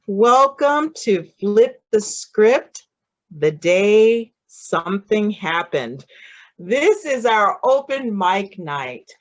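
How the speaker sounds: loud, projected host's welcome; show-opening welcome. Real, not acted. Host welcomes everyone to open mic night, projected announcer style. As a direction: announce the show to the whole audience, loudly.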